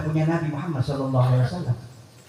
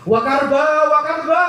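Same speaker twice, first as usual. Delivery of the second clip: high wailing lament, louder; wailing cry; 9 semitones higher, 4 dB louder, slower than usual. Retold or imitated. Bilal's wife wails at his deathbed, high and loud. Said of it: "Sampai istrinya teriak-teriak".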